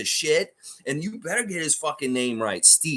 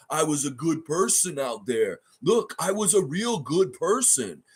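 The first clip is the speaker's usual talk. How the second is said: lightly voiced mock of the player's excuses; mocking Lopez; slower than usual. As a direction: drag the words like a dazed player. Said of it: "Brook Lopez says".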